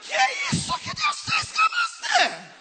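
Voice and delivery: very high, slow squealing astonishment; amazed gossip shriek. Retold or imitated. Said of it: "elas vão falar assim". (fofoca em gritinho agudo)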